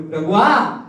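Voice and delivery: high, slow, loud anguished plea; preacher's weeping prayer voice; tearful pleading prayer. Acted. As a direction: cry out to God in grief. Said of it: "అని కేడుస్తున్నాను".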